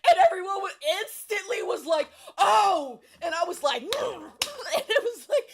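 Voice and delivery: loud, high, laughing through the words. Real, not acted. Describing the class reaction, laughing hard. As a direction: talk while cracking up.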